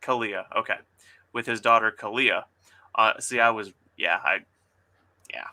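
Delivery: steady, even story narration; story reading. Acted. Author reading her diner scene aloud to guests. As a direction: read the scene out calmly.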